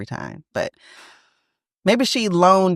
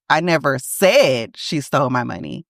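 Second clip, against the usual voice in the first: said lifted and stretched; stress on said. Shown as a demonstration. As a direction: press on the word said. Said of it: "meaning I did not say these things".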